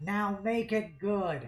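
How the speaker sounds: voice dropped to whisper. A captain greets hostile creatures, then whispers aside to the player, dropping voice to whisper. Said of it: "dropping his voice to whisper to you".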